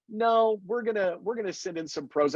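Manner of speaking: retold refusal, starting high; dismissive refusal. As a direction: lightly act out the network turning him down. Voices network refusing his begging.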